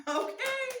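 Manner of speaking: laughing okay. Real, not acted. Laughing after her own line.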